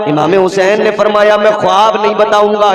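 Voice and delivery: high, level preaching chant with soaring bursts; chanted storytelling that swells to a ringing cry; intoned sermon narration. Acted. Intoned sermon narration, rising to cries.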